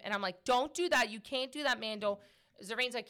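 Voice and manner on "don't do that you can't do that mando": higher-pitched, mildly cross telling-off; mock scolding. Telling off the dog as if it understands, mock scolding. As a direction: scold a pet firmly but without real anger. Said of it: "when I'm getting mad at him".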